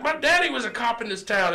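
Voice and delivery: high loud mock redneck boast; retelling the drunk's threats, mock redneck shout; redneck bragging. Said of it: "He's like".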